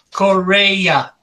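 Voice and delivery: "Correa" said out loudly in separate syllables; careful name pronunciation. Shown as a demonstration. Auctioneer correcting how Manny's surname is said, careful pronunciation. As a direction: sound out "Correa" firmly, syllable by syllable. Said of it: "it is pronounced Correa".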